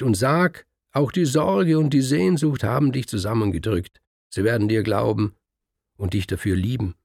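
feed him the excuses with rising energy; eager husband coaching. Acted. The man coaching the scribe what to tell the family, eager.

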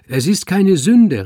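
loud, high, slow proclamation; called to the room. A narrator's reading. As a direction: announce it to the whole hall. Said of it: "rief der Zeremonienmeister in die Runde".

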